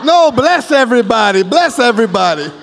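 emphatic correction. Real, not acted.

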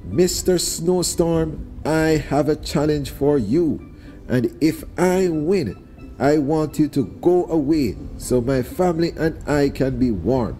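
a small spider calling out to the sky. Acted. Anansi challenges the snowstorm outside.

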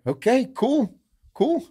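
giddy cool. Retold or imitated. Retelling his reaction to a good night's sleep.

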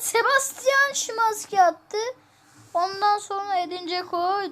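sports announcer. Acted. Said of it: "Spiker gibi konuşuyorum".

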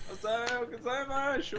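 put-on clumsy Japanese greeting, English accent; japanese learner accent. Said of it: "I was trying to speak Japanese".

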